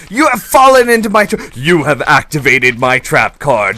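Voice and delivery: loud high theatrical villain boast; triumphant cartoon-villain announcement; gloating villain. Trap springs on slimes.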